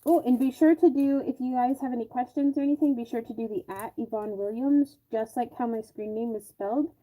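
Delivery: talking through a respirator mask; muffled, blocked-nose sound behind a mask. Real, not acted. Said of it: "sounds like I have a clothespin on my nose".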